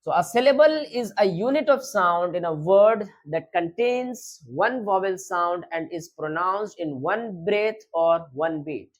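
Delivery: slow, word by word; slow dictation. Shown as a demonstration. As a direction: dictate it so students can write. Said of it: "teacher dictates the definition".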